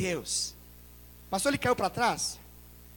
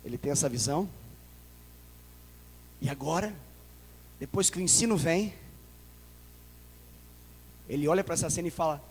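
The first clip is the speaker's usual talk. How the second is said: usual speaking voice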